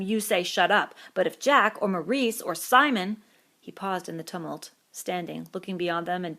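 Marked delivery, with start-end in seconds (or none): 0.0-3.2 bitter. A narrator's reading. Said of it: "cried Piggy with bitter realism".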